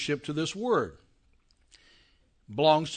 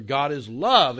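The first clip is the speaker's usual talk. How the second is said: "love" punched louder at the end; stress on LOVE; 3 semitones lower, 5 dB louder, slower than usual. Shown as a demonstration. Teacher showing emphasis moved onto "love". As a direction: hit the word "love". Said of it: "and emphasize".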